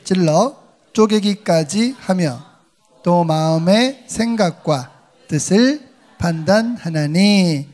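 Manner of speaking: slow, measured reading of scripture in unison; solemn scripture reading. Acted. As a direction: read each phrase slowly together with the congregation. Congregation reads scripture aloud.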